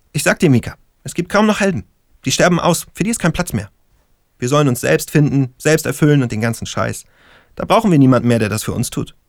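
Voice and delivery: lightly voiced Lennart philosophizing; preachy stoner. Lennart's speech on heroes.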